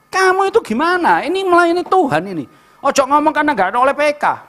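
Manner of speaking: high-pitched indignant reprimand; acted telling-off. Preacher rebuking church servants about serving God, indignant. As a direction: demonstrate a scolding, voice pitched high. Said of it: "Marah dalam arti aku ngomong".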